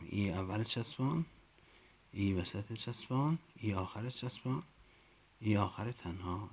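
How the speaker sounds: rising sing-song on each form; teacher recital. Shown as a demonstration. Teacher modelling the chant for colleagues to repeat. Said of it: "شما هم اینجوری باید بگید".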